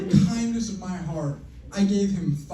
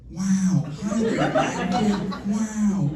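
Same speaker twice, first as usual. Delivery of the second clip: Owen Wilson impression; much slower than usual. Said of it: "It's Owen Wilson".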